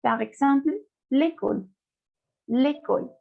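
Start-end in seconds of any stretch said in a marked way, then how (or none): 1.1-3.1 "l'école" with a closed first E; less open E. Shown as a demonstration. Teacher shows acute accent, "l'école" with E not so open. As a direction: say the E of "l'école" narrow, like lay-KOL. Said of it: "no es tan abierta como el acento grave".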